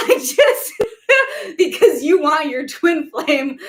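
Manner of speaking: high, loud burst of laughter; laughing. Real, not acted. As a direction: talk through real giggles. Breaks into laughter after gasp.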